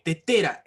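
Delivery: "tetera" with the second TE pushed; teacher's demo of "tetera", stress in the middle; stress on middle syllable. Shown as a demonstration. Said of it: "En la penúltima sílaba".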